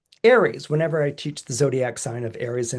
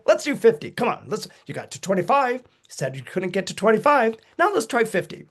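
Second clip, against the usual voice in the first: pushy coach; 6 semitones higher than usual. Retold or imitated. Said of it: "the Saturn in Aries is like".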